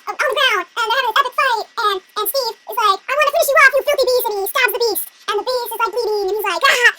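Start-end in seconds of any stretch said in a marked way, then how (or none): 3.1-4.3 louder, higher mock menace; hammed-up villain attack; vicious villain. Villain attacking in epic fight. 6.7-6.9 louder, mock pained cries; hammed-up agony; wounded groaning. Wounded beast crying out.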